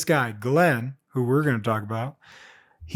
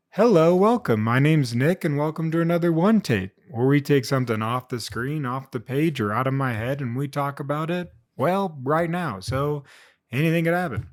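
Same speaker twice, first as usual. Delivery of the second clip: upbeat host welcome, pitched up a little; show host intro. Acted. Host welcoming viewers to his show, lightly upbeat.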